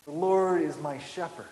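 SHEPHERD given gentle weight at the end; stress on SHEPHERD. Shown as a demonstration. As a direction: let the weight land on shepherd. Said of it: "Emphasize every word of just that first line".

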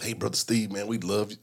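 put-on deacon's Black American accent, low and soft. Deacon pulls visiting preacher aside, Black American accent. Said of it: "Why am I doing black accent?".

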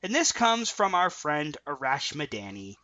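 slow, dryly sarcastic. Real, not acted. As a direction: say "friend" with pointed sarcasm, unhurried. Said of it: "you can sense the sarcasm in my voice".

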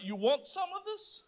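hammed-up schoolboy taunt; mock tough guy. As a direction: play the hard man. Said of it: "to the next minute".

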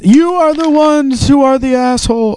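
high, slow silly quote voice; goofy quote voice. Retold or imitated. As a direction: deliver it like a dopey comeback. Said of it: "brilliant line".

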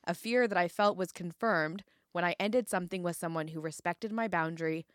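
measured reading aloud; narrating from a memoir; book excerpt reading. Acted. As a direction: read the passage out to listeners, phrase by phrase.

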